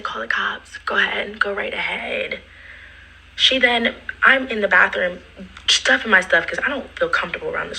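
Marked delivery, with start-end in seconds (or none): 0.0-2.4 defiant whisper. Retold or imitated. Defiant reply to police threat.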